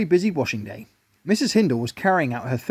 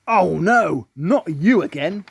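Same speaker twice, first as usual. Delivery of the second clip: weary; 2 semitones higher, 3 dB louder, much slower than usual. A narrator's reading. Mr Hindle weary at Daddy.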